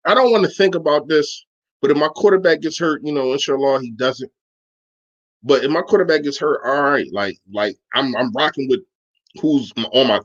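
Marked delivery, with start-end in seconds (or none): none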